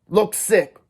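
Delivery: command. Acted. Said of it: "Dally commanded".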